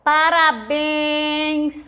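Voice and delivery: Parabéns drawn out very slowly, stress on the final béns; 慢读示范. Shown as a demonstration. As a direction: spell out Parabéns slowly for the class. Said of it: "o acento é só no E".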